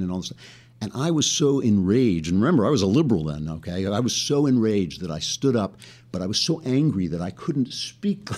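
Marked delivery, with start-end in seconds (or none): none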